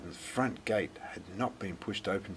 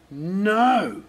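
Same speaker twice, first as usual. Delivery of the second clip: loud, higher angry bark; growled; 10 semitones higher, 9 dB louder than usual. Acted. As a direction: bark the refusal at the girl. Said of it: "growled Mister Wintergarten".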